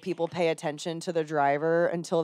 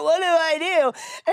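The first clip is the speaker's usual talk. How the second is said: imitating lost husband; 10 semitones higher than usual. Husband panicking, retold.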